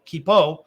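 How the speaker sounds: "keepo" said as KEE-po, long ee, ending -o; alternative pronunciation. Shown as a demonstration. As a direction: give "keepo" a long ee and a final o. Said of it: "Or keepo, K E E P O".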